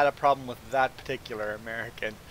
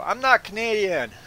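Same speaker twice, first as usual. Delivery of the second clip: high, loud denial; acted-out affronted comeback; retold indignant retort; 9 semitones higher, 6 dB louder than usual. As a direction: throw it back, pitched up and louder. Retort to cutter's jibe.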